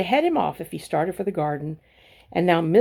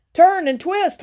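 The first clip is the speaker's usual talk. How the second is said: much higher, loud honk of a command; honking goose; 11 semitones higher, 7 dB louder, slower than usual. A narrator's reading. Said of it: "honked the goose".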